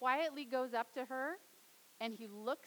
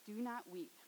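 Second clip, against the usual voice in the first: Jesus comforts the widow, soft and gentle; 6 dB quieter than usual. Acted. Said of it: "he says".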